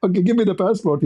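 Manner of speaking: playful retold protest; retold upset. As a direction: demand it back in mock exasperation. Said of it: "I get upset".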